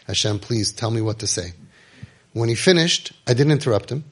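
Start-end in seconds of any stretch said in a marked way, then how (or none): 0.1-1.5 low, hushed inward plea; silent prayer. Retold or imitated. Man silently begging God for words while someone rants, hushed. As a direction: pray it softly, as if inside your head. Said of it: "I am thinking in my mind".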